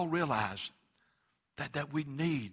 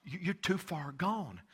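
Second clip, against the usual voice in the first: taunting enemy voice; 7 semitones higher than usual. Retold or imitated. The enemy telling the believer it's too hard for God, mocking and higher. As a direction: sneer the doubts at the listener like the devil. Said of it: "the enemy just comes and just says".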